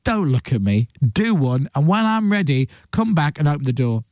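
haughty cat dismissing its human; imperious cat. Acted. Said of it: "Whereas a cat will go".

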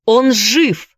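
high loud insistent shout; Andy shouts at stunned James. Acted. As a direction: shout to shake him. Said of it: "снова закричал Энди".

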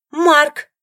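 high, loud one-word demand; sharp shout. Acted. Rival demanding her husband back, shouting his name. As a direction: bark the name.

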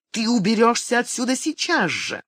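high-pitched furious ultimatum; narrated shriek of command; shrieking order. A narrator's reading. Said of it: "взвизгнула мать".

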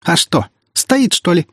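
high, teasing question; amused jeer. A narrator's reading. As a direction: taunt with mocking amusement. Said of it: "хохотнула она".

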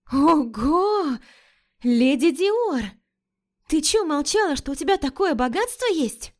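high, thrilled over a designer bag; delighted gasp. Acted. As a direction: squeal with delight at the find. Лика в восторге от сумки. (восторженно, высоким голосом)

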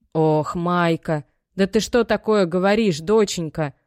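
mother aghast at her daughter; dismayed mother. Acted. Мать в ужасе. (мать в отчаянии, медленно)

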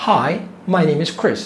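each word spelled out slowly; drawn-out model sentence for learners; slow teaching demo. Shown as a demonstration. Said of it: "تعال نسمع".

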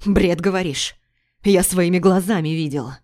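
loud, bitter; husband insisting he saw it; angry retort. Acted. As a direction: throw it back at her.

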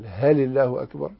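هل rising like a question; asking tone. Shown as a demonstration. Teacher showing the meaning shift, questioning rise. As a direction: ask هل الله أكبر with a questioning rise. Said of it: "تسأل".

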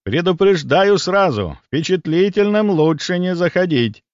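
mock-ominous, drawing out the warning; sepulchral warning. A narrator's reading. Boy teases friends outside the building, mock sepulchral. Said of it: "могильным голосом произнёс Ваня".

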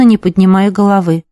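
ordinary delivery

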